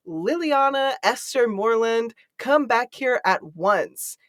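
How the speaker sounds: imitating a scolding mother calling the full name, slow on come back here; half-hearted parental yell down the hall; mild mock yell. Juno calling the runaway child, a mild mock scolding yell. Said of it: "Juno from the hallway scream".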